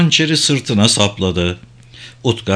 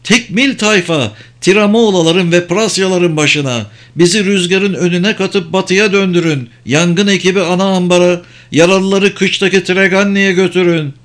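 high, raised commanding voice; captain rallying the crew; shouted orders; 6 semitones higher than usual. A narrator's reading. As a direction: call out orders across the deck. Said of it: "diye bağırdı Zamira".

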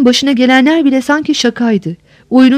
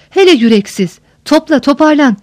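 a touch of an irritated master snapping at his steward; scolding snap; 3 semitones higher than usual. Acted. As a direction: mildly scold him out of habit. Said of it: "kahyasına alışkanlıkla çıkıştı". (kahyasını hafifçe azarlayarak)

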